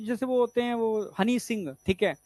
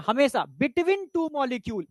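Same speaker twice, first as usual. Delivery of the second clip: slow emphatic rule; much slower than usual. Shown as a demonstration. Teacher stresses the rule slowly.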